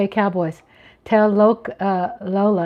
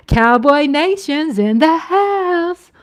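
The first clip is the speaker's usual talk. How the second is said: hype shout; 5 semitones higher, 3 dB louder, slower than usual. Real, not acted. Hyping up the Cowboys fans.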